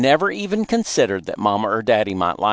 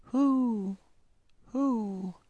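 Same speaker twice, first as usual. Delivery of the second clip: high, soft, distant owl hoots; 13 semitones higher, 8 dB quieter than usual. A narrator's reading. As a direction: hoot softly like a far-off owl. Owl heard across night air.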